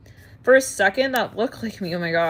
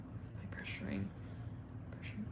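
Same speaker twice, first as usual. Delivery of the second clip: whispered to herself, much softer; 12 semitones lower, 17 dB quieter than usual. Real, not acted. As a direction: breathe the words, nearly silent. Whispered self-question.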